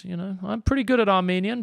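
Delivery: hammed-up Armenian accent to prove the point; jokey Armenian accent. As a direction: show off a playful Armenian accent. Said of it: "Armenian accent".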